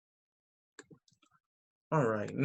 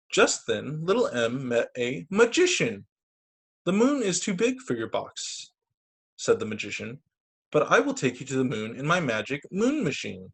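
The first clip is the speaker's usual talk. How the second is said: put-on lively storybook voice for kids; bright read-aloud narration; reading to children. Reads picture book aloud.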